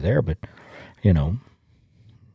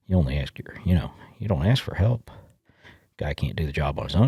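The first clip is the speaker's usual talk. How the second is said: whisper; 4 semitones lower, 6 dB quieter than usual. Real, not acted. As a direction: drop to a hushed aside. Aside that men never ask help.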